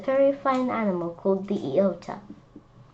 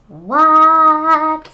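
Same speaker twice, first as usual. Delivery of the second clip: surprised; 7 semitones higher, 10 dB louder than usual. Real, not acted. Reacting to the tall tale.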